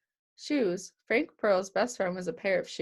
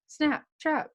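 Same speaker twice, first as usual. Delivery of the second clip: high, punchy snap-trap effect noise, Snap and trap popped out; a kid voicing the plant snapping shut; sound effects; 7 semitones higher than usual. A narrator's reading. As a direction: make the trap's snap sound. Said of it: "adding sound effects".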